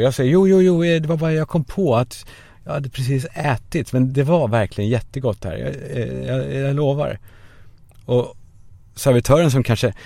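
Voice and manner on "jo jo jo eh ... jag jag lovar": flustered excuse. Retold or imitated. Nervous excuse to the waiter.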